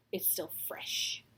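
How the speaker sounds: hushed, breathy repeat; whispered aside. Real, not acted. Vlogger whispering about last night, hushed.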